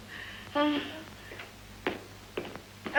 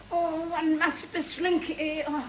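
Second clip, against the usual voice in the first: put-on stagey old movie actor; 4 semitones higher than usual. Affected society mother gushing.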